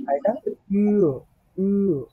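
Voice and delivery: slow ইউ with lips slightly spread; teacher modelling ü slowly; German ü. Shown as a demonstration. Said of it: "একটু হালকা, ঠোঁটটা একটু ছড়াবেন".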